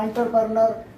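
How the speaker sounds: एंटरप्रेन्योर run together, starting "aan"; common reading. Shown as a demonstration. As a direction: show common एंटरप्रेन्योर as aan-ter-pre-ner. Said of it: "बहुत सारे लोग बोलते हैं".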